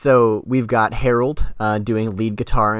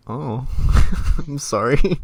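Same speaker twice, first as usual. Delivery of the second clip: mock sympathy; 6 semitones higher, 5 dB louder, slower than usual. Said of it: "And I was like".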